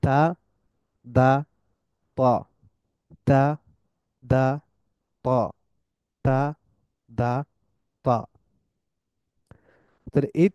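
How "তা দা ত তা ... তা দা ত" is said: তা দা ত repeated slowly, one by one; Arabic letter practice; letter drill. Shown as a demonstration. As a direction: drill the letters with a pause after each. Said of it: "আমার সাথে practice করতে পারেন".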